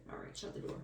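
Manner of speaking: real whisper, no voice at all; whispered aside. Real, not acted. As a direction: breathe it so the viewers barely hear. Quick aside to someone nearby.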